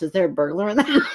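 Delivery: quick run-through with a laugh underneath; unthinking, casual. Shown as a demonstration. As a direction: toss it off fast, barely holding laughter. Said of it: "not thinking about how I said it".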